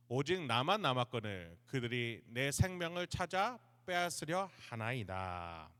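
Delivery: measured, formal Bible reading; scripture reading. A narrator's reading. Preacher reads the passage to the congregation, formal scripture reading. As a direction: read the verses aloud solemnly, drawing out the last words.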